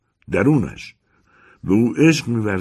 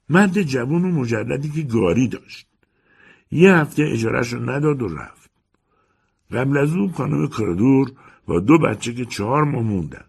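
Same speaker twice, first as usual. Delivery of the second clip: put-on higher, old housekeeper answering curtly; 6 semitones higher, 3 dB louder than usual. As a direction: play the landlady's servant, a bit bored. Housekeeper lists former tenants.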